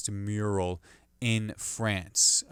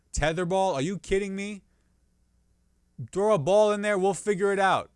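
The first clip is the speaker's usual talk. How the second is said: exasperated rant; 7 semitones higher than usual. Real, not acted. Ranting about being twelve at recess.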